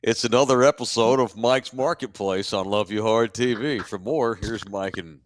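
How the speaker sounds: announcer voice. Pretend. Show intro announcement.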